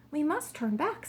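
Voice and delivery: high-pitched, urgent king; alarmed. A narrator's reading. King wants to flee the shaking, alarmed. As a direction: raise the alarm with a lifted voice.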